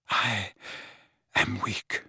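soft, halting, drained of strength; weak, exhausted. A narrator's reading. Exhausted headmaster admits it to the boy, weakly. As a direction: barely get the words out, with a pause. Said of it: "Dumbledore's extreme pallor".

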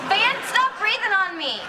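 high whiny demands; imitating a sick pregnant girl; whiny demanding daughter. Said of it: "it sounds like this".

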